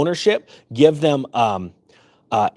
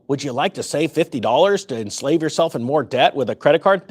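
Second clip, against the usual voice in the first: blunt mock cashier pitch in the usual pitch; not-nice sales pitch. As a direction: parody a store clerk's upsell, not sweetened. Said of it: "They actually don't say it that way".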